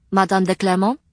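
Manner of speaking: lightly voiced polite librarian. Librarian Rima greets narrator.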